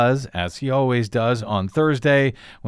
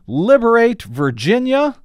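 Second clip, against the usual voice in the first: mocking yell, much higher and louder; sarcastic rally-cry mock; all-caps shout; 9 semitones higher, 5 dB louder than usual. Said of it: "in all caps".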